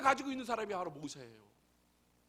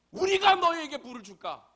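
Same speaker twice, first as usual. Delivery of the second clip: higher, louder indignant outburst; angry Moses; 6 semitones higher, 9 dB louder than usual. Retold or imitated. Moses to the Israelites at the rock, angry shout. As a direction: snap it at the grumbling crowd. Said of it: "이렇게 얘기합니다".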